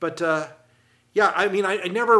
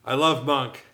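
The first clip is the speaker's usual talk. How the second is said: gushing fan; 3 dB louder, slower than usual. Retold or imitated. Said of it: "looks him right in the face and says".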